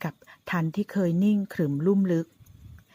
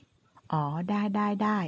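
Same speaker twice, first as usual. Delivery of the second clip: slow, drawn-out innocent yes; naive eager agreement; 4 semitones higher, much slower than usual. Acted. Fueangrada innocently agrees to hold the glass, slow and eager. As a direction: agree guilelessly, no idea of the tease. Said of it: "เฟื่องระดาพาซื่อ".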